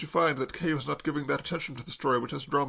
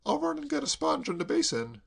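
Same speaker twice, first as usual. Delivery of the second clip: agitated; 12 semitones higher than usual. A narrator's reading. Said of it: "said Kay in agitation".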